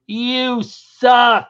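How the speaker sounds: loud, flat "You suck"; heckler jeer. Retold or imitated. Drunk heckler insulting the comic, loud. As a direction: sneer it into the mic.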